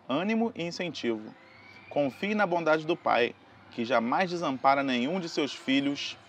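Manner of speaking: slow solemn inspirational reading; Cid Moreira. Acted. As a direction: read it like a solemn TV sermon. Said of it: "Cid Moreira".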